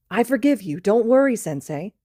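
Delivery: put-on high, loud drunken reassurance; tipsy comfort. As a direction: soothe him grandly while tipsy. Drunk student comforting teacher.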